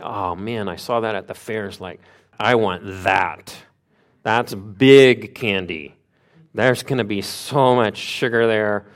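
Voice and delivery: imitated kid-at-the-fair awe, big words punched; wide-eyed excitement. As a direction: relive the thrill, stretching the big words. Recalls first sight of cotton candy.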